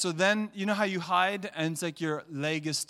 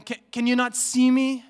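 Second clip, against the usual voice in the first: higher, louder pleading questions; voice of God pleading; 6 semitones higher, 6 dB louder than usual. Acted. God asking people why they cannot see him, pleading. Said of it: "he's saying".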